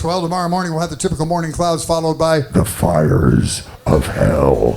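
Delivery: smooth forecast, dropping very low on of hell; weatherman's cheerful forecast turning doom-deep. Retold or imitated. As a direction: forecast sweetly then plunge to a deep demonic hell. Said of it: "Now every day it's".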